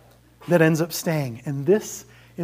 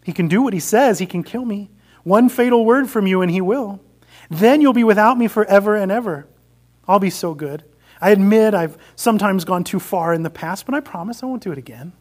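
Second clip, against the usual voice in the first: loud, wheedling lizard chatter; 3 semitones higher, 5 dB louder than usual. Acted. Lizard whispering to the ghost, loud and pleading. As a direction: coax and beg like a desperate pet. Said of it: "the lizard began chattering loudly".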